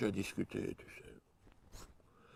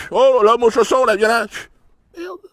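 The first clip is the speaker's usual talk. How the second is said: high, loud startled yelp; mock panic; 11 semitones higher, 14 dB louder than usual. Friend panicking at the cop, hammed-up startled yelp. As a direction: caught out, squawking in alarm.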